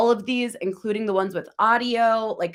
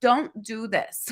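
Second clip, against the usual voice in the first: put-on, mock-stern voice, slower. Creator advising viewers on copyright strikes, in a put-on stern mom voice. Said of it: "Do you like my stern mom voice".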